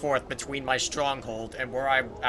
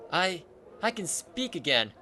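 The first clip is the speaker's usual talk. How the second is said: joyful; 6 semitones higher, 3 dB louder, slower than usual. Acted. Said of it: "Echo opens her mouth ... and speaks".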